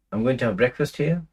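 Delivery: "I'm going to have breakfast here" said as a statement with a questioning lift. Shown as a demonstration. Guest arriving hungry at a friend's house, statement said as a question. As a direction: make the statement sound like a hopeful question. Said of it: "the tone, the intonation makes it into a question".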